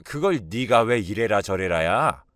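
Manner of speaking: scolding mother-in-law, moderately forceful; acted angry yelling. Mother-in-law tells daughter-in-law to butt out, acted angry yelling. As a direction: tell her off sharply, putting her in her place. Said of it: "저한테 소리를 발칵 지르더라고요".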